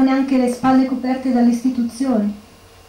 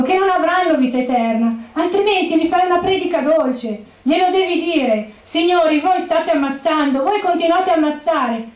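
higher, insistent cry from the pews; retold cry at the cardinal; 5 semitones higher than usual. Widow crying out to the cardinal from the pews, higher and insistent. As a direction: restage the outburst at the altar without full volume. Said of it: "e gridai dai banchi verso l'altare".

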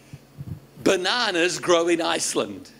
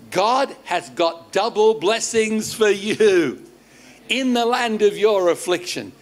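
measured, rising preacher's delivery; preaching declaration; 3 semitones higher, 3 dB louder than usual. Real, not acted. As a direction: proclaim a blessing over the congregation. Preacher declares blessing over congregation.

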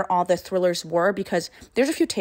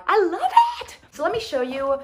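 laughing; 8 semitones higher, 3 dB louder than usual. Real, not acted. Laughing over her haul.

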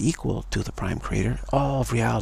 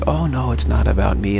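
mock loud protest; 7 dB louder than usual.

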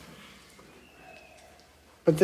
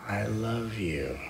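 slow, soft voiced I love you; soft spoken; 8 dB quieter, much slower than usual. Voiced take before whisper.

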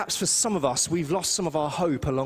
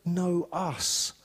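Isaiah proclaimed; 7 semitones higher than usual. Retold or imitated. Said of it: "where it says".

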